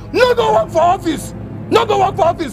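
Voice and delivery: high taunt. Acted. Tenant sarcastically taunts landlord.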